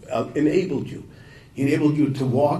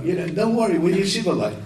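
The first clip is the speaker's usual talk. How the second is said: mild reassurance; 7 semitones higher, 3 dB louder than usual. Retold or imitated. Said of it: "he says".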